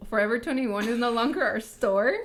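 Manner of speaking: gingerly broaching it, playful; tentative teasing suggestion. Real, not acted. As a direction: float a touchy idea, lilting up at each phrase. Teasing hesitant suggestion they're old.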